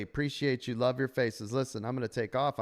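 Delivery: hoarse, fading voice; tired voice, nearly gone; losing voice. Real, not acted. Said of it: "I'm literally losing my voice".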